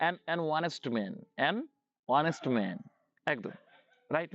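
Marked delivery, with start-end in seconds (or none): 0.1-2.8 slow model phrase. Shown as a demonstration. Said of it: "slow model phrase".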